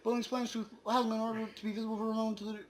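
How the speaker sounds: high, fast, squeaky poem voice; high squeaky reader. Acted. Reading the End Poem aloud as a squeaky chipmunk. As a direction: race through the lines in a chipmunk voice.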